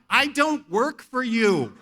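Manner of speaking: loud, slow and deliberate defiance; acted slow, loud refusal; defiant retort. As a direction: tell the boss off, word by word. Defiant retort to his manager.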